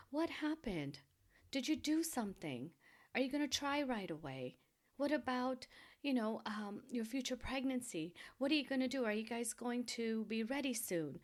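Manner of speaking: imitated pressing questions. Relatives pressing a woman after miscarriage with questions, insistent. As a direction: fire off questions like a prying relative.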